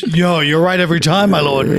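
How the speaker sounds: mild mock fawning; a touch of servile flattery; obsequious. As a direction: lightly play an obsequious courtier.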